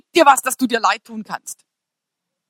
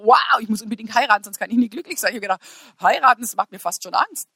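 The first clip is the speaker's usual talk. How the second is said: usual speaking voice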